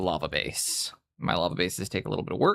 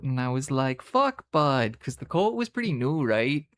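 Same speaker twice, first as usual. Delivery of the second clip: hammed-up Canadian hoser recital; Canadian accent; 3 semitones higher than usual. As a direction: rattle off the tale in a broad Canadian accent. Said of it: "we can all turn the accent on".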